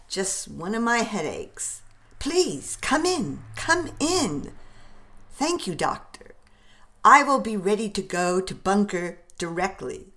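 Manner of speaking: a hint of a blustery pompous doctor; blustery pompous mayor. Warren voiced by narrator.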